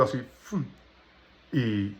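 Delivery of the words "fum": soft, quick imitated splash; quick whoosh. Man imitating water thrown at him as he slept, quick whoosh. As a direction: imitate water flung suddenly, softly. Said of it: "me echó agua así como rápido".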